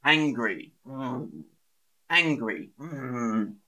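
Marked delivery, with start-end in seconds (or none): 0.9-1.4 soft mock-angry "mm"; angry grunt. Shown as a demonstration. Teacher acting out angry for learners, grumbling. 2.8-3.6 soft, drawn-out mock-angry "mm"; angry grunt. Shown as a demonstration. Teacher acting out angry for learners, grumbling.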